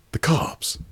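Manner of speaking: squeaky alarm. Acted. Paranoid caller squeaks out his fear in alarm. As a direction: jump way up high on "The cops.", tight and voiceless.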